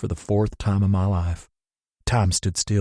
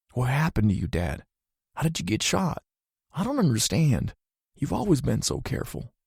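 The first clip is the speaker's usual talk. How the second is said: anxious son; 5 semitones higher, 3 dB quieter than usual. A narrator's reading.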